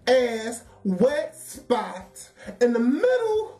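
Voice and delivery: high laughter through words; laughing. Real, not acted. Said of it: "I gotta laugh".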